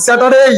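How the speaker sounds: স্যাটারডেই with a full "dey" glide; clear AY ending. Shown as a demonstration. Teacher urging the class to repeat, gliding end on স্যাটারডেই. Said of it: "জোরে আওয়াজ".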